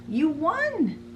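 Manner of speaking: high Cheshire Cat voice announcing the win. Acted. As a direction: purr it out as the grinning cat. Cheshire Cat tells Alice.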